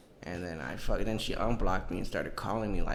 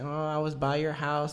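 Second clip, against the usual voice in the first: high, mocking girlfriend voice; put-on girlfriend impression; imitated ex; 6 semitones higher than usual. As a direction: mimic the ex in a raised voice. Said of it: "she's just like".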